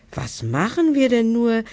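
high whiny wail, pitch lifted well up; whining. Acted. Monster leader stuck in the door, whining high. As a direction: plead it like a whimpering child. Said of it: "jammerte der Anführer".

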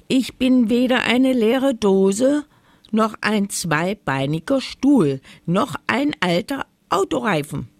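high, forceful indignant protest; affronted dog standing up for itself. A narrator's reading. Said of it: "empörte sich Mori".

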